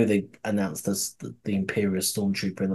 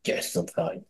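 gruff denial; 9 semitones higher, 7 dB quieter than usual. Retold or imitated.

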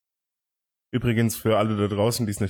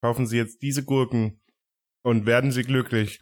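chipper 1950s ad. Pretend. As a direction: sell it like a cheesy TV ad. Fake pickle advertisement.

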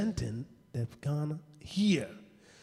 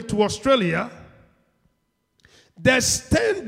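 raised, loud preaching voice; punchy, high-pitched preacher delivery; emphatic preaching; 7 semitones higher, 8 dB louder than usual. Real, not acted. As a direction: drive each phrase home to the congregation. Preaches with rising force.

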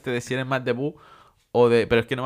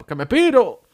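higher and louder, hammed-up Cell; mock villain shout; 10 semitones higher, 7 dB louder than usual. Retelling Dragon Ball to friends, Cell's hammed-up shouted exit. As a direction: yell the exit like a cartoon villain. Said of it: "Y dice Célula".

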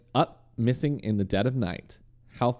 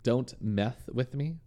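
slow deliberate read; 2 semitones higher, 4 dB quieter, slower than usual. Shown as a demonstration. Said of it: "Is it about meth?".

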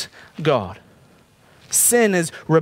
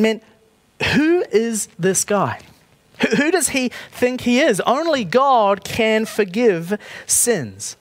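higher, incredulous and slowing down; indignant Pharisees; 5 semitones higher than usual. Retold or imitated. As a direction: scoff as a offended Pharisee, drawing out the last line. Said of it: "The Pharisees are thinking".

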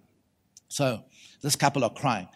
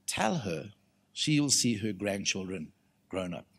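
low, slow and softened; solemn word from God; 5 semitones lower, 8 dB quieter than usual. Retold or imitated. Lord answering the preacher about Desiree, solemn and hushed. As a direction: deliver it gently, slow and low. Relaying what the Lord told him.

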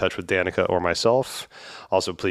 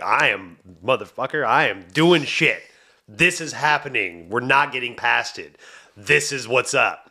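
higher, forceful mock declaration; fierce; 4 semitones higher than usual. Host imitates the fierce ending of the reading, mock defiant. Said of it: "and then at the end, it's like".

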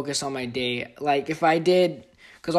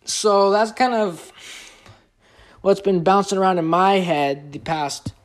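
talking through hiccups; hiccuping between words; 3 semitones higher than usual. Real, not acted. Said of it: "Excuse me, I have the hiccups".

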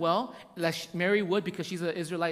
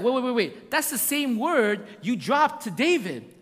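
raised, insistent imitation of a baffled Mary; mock incredulity; 4 semitones higher, 4 dB louder than usual. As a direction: act out a startled objection to the angel. Mary's acted protest to angel.

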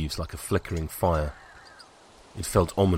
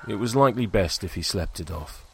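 usual speaking voice

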